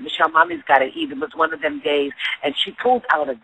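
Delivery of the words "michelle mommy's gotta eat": hungry whine. Retold or imitated. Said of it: "and I was like".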